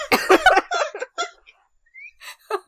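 very high, loud kiddie echo; squeaky little voices echoing a word; little children's voices. Acted. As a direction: mimic a gaggle of small kids parroting. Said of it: "an echo of little voices saying".

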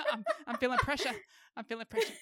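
put-on half-hearted English accent, laughing; lightly put-on English accent; fake English accent. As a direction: attempt a fake English accent, dropping the R in "pressure". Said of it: "your fake, uh, English accents".

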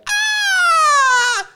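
high, loud mock scream; imitated scream. Girlfriend's scream from the kitchen, imitated high and loud. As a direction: let out a shrill little shriek. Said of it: "you hear my girlfriend go".

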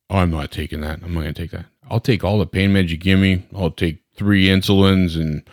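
light mock-Southern patient; goofy Southern accent. Patient refusing psych meds from the doctor, in a light goofy Southern accent. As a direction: refuse in a slightly put-on Southern twang. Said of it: "every patient I talk bad about has a Southern accent".

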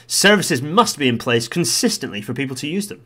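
lightly voiced committee statement; Transport Select Committee voice. Vlogger reading the report's next sentence, lightly put-on committee voice. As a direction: read it out formally, with emphasis on the demand. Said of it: "Transport Select Committee voice".

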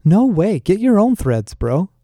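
guy refusing to give up his clothes, high indignant protest; balking. A narrator's reading. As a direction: jump up in outraged refusal. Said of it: "Flynn balked, recoiling".

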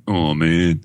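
playful groan of letdown; hammed-up, drawn-out dismay; mock disappointment. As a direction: sag like a let-down crowd. Mock letdown in alternating list.

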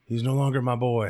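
lightly drawn Southern father; a hint of a Southern accent. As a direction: put on a slight Southern accent. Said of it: "He's from the South".

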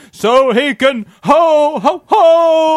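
loud, high, drawn-out mock diva; a famous diva singer. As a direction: belt out the punchline slowly. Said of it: "And it's me, a singer".

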